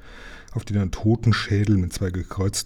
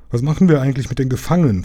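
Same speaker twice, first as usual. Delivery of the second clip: fast, higher, louder query; quick pirate question; 5 semitones higher, 4 dB louder, faster than usual. Acted. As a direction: blurt it out eagerly. Pirate asks. (schnelle Frage)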